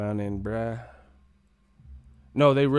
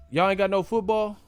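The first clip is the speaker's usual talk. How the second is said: pitched way up, loud disbelief; baffled question; 10 semitones higher, 4 dB louder than usual. Retold or imitated. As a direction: act stunned at no football. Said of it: "I was like".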